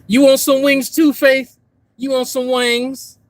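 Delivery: high sing-song voice for a pet; pet talk. Real, not acted. Offering wings to the pet in a high coo.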